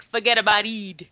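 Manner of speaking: put-on mangled New York through a British accent; British attempting New York accent. Co-host mimicking the film's accent lesson, British-tinged botched New York accent. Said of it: "attempting to do a British accent, attempting to do a New York accent".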